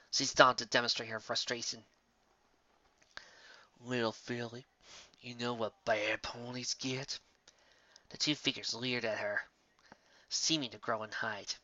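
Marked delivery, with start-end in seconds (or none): 3.8-7.2 menacing whisper-quiet. Acted. Sinister imposters threaten filly.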